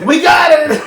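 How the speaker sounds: high laughing shout of triumph; laughing mock cheer. Friends retelling Jaws, hillbilly cheering, laughing high shout. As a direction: yell it out as the gleeful hillbilly, cracking up.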